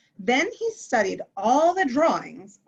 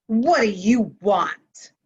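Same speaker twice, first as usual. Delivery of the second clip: a louder, sharp snap at his sister; snapped; 5 dB louder than usual. Acted. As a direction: bite the question off, irritated. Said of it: "he snapped".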